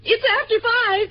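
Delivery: high indignant outburst. Acted. Wife protesting that it's after five, indignant. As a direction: protest sharply, pitched right up.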